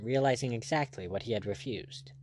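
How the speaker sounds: ordinary delivery, nothing marked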